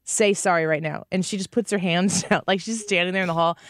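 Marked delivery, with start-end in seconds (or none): 0.0-1.1 firm, measured mom voice, slower; stern mom. Retold or imitated. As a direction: scold the toddler slowly and firmly. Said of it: "I was like".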